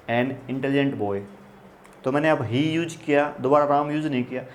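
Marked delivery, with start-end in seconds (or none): 0.1-1.2 slow dictation. Shown as a demonstration. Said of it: "dictating example sentence".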